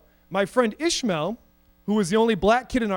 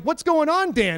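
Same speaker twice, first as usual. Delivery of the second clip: mock-irritated, higher-pitched demand; pissed off; 6 semitones higher than usual. Student VP confronts the absent president, mock pissed off. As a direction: imitate a fed-up vice president. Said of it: "my V P was getting pissed".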